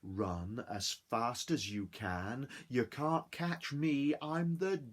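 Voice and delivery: slow, teasing sing-song; cheeky gingerbread man. Acted. Gingerbread man taunting his chasers, slow teasing chant. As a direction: taunt them as you run.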